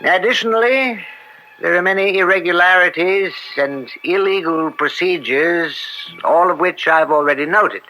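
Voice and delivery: measured, formal verdict delivered from the bench; formal court ruling. Acted. Judge announcing his verdict to the court, formally. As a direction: pronounce the ruling with weight.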